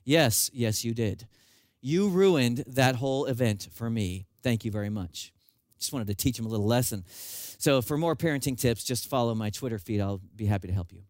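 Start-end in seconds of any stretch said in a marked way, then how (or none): 0.0-5.3 sarcastic dad. Retold or imitated. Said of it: "in one of my finer parenting moments".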